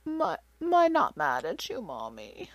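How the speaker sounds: put-on soft, high little-girl voice; sweet two-year-old consoling mom, slow; two-year-old comforting mommy, soft and high; toddler voice. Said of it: "she takes me by the face and she goes".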